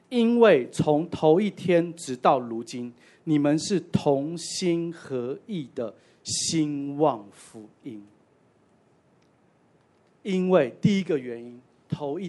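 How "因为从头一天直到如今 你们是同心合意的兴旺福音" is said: reading the verse slowly, each word weighed; slow scripture reading. Shown as a demonstration. Preacher reads the verse to the church, slow and weighty. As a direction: lay out 因为从头一天直到如今 slowly and deliberately. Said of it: "在第五节就提到第一个原因了".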